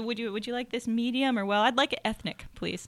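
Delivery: understated pretend restaurant order, trailing softly; casually matter-of-fact. Diner orders it ethnic from the waiter, casually matter-of-fact. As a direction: slip the odd word in as if normal. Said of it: "slip that in as if it's a normal phrase".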